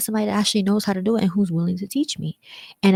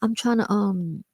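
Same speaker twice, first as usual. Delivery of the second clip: higher, slow complaining whine; higher, slow exasperated self-talk about hair products; acted frustration; 6 semitones higher, slower than usual.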